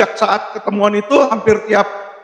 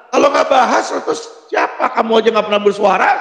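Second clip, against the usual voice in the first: retold indignant retort, pitched up. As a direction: throw the challenge back at them. (menirukan bantahan kesal)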